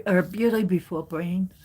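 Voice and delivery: a hint of old Jewish lady accent; lightly put-on old Jewish lady accent. Joking over tarot cards, old Jewish lady accent. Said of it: "that sounded like an old Jewish lady".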